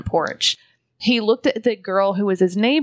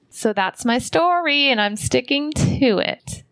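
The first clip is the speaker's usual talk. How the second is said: playful sign-off; 5 semitones higher than usual. Real, not acted. Playful sign-off ending the story.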